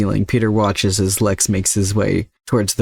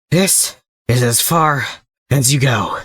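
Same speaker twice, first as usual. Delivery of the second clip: slow, higher, panting villain voice; huffed out; 4 semitones higher, slower than usual. Acted. Exhausted Lex corners Peter, lightly voiced panting threat. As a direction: push each word out between breaths. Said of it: "he huffs out each word".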